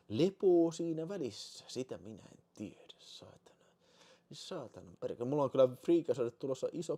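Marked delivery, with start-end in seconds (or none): 1.7-5.3 whispered curse. Real, not acted.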